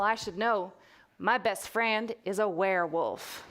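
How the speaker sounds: put-on reading in a light Texas accent; storyteller slipping into a mild Texas accent. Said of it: "I'm gonna put on a Texas accent now".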